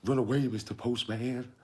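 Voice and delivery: high excited film-dad impression; hammed-up, high-pitched warning. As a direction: cheer at the TV in a high voice. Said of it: "he's watching that thing on T V and he's like".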